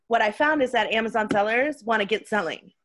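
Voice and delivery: hoarse, losing voice. Real, not acted. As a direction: voice giving out. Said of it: "losing my voice here".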